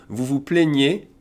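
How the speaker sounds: "plaignez" with closed é vowels; accent aigu demonstration. Shown as a demonstration. Teacher repeating for learners, slow closed accent aigu sound. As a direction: slowly sound out "plaignez" as play-nyay. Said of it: "you hear E accent aigu".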